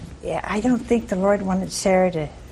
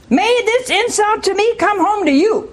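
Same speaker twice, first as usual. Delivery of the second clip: indignant Sarah; 10 semitones higher than usual. Retold or imitated. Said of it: "And she said".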